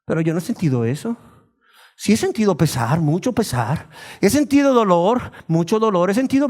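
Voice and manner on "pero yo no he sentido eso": lower, hushed worried reply; a hint of a doubter losing heart; doubting listener. Churchgoer doubting their own repentance, lower and hushed. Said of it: "la persona dice".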